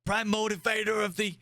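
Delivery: put-on high, cranky old admiral; grumpy elderly commander scolding. Plays old admiral character.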